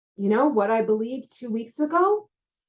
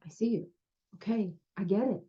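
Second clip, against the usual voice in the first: softer, understanding tone to someone struggling; gentle reassurance; 7 dB quieter, faster than usual. Retold or imitated. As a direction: quietly acknowledge their struggle. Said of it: "look at them and go".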